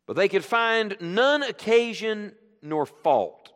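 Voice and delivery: slow, solemn reading of the verse; scripture reading. Acted. Preacher reading scripture to the congregation, slow and solemn. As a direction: read the text slowly, weighing each phrase. Reads scripture aloud slowly.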